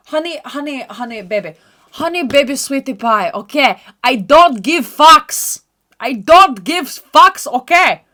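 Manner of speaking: sassy diva. Acted. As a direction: dismiss them like a diva. Mock diva dismissing friends.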